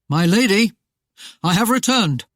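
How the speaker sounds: sheriff's voice, greeting with a sly edge; lightly voiced gloating sheriff; smug sheriff. The sheriff announces himself to the captive lady, sly.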